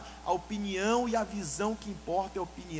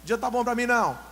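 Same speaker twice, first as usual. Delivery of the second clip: mock grumpy retort; 3 semitones higher, 6 dB louder than usual.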